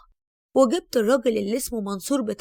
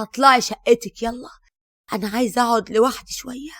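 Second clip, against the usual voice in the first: angry dismissal; 5 dB louder than usual. Acted. Throwing daughter-in-law out.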